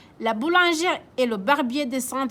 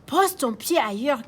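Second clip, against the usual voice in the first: barber crying out. Acted. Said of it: "s'écrie le barbier".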